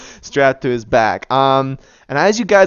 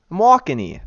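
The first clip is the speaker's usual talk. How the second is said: put-on New York accent; 3 semitones higher than usual. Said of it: "There we go".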